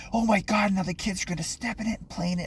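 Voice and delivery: freaked out. Retold or imitated. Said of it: "she freaked out".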